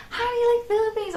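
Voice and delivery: high, eager mock question; excited question. Stranger excitedly asks the visitor, high imitated eagerness. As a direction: ask it like an overexcited stranger. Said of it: "He was really excited".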